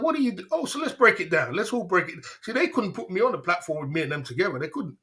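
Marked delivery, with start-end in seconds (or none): 0.0-2.2 high, mocking "what do you do"; a mocking dare, pitched high; imagined challenge. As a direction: toss the challenge back up high and taunting. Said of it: "I'd be like".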